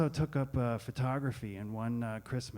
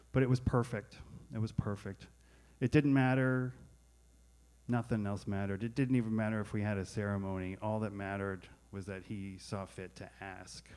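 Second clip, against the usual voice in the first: ordinary delivery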